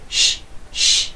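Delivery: soft shushing hiss; avalanche shush. Shown as a demonstration. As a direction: shush like falling snow. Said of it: "the avalanche is".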